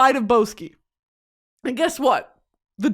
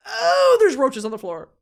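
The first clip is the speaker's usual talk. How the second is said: horrified reaction; 2 semitones higher, 4 dB louder than usual. Retold or imitated. Woman spots roaches at her date's place, horrified.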